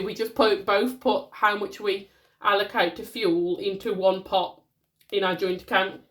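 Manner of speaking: bunged up with a cold; stuffy nose, a bit nasal; blocked nose. Real, not acted. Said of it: "Apologies, I'm bunged up again".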